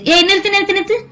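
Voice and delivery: high, sharp cry of stop stop; urgent stop. Acted. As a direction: cut her off, high and urgent. He cuts her rambling short.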